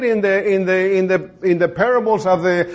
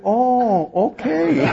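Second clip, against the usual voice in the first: tag; 4 semitones higher, much slower than usual. Retold or imitated. Wary relief, played for laughs.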